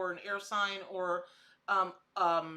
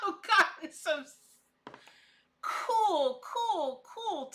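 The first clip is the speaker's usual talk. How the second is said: bubbling laughter, high and loud; laughing; 8 semitones higher, 6 dB louder, much slower than usual. Real, not acted. Telling viewers about their messages, laughing high and loud. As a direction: giggle through cool, cool.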